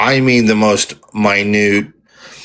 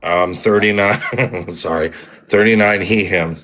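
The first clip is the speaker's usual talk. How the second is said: being tickled. Real, not acted. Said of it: "Was somebody tickling you?".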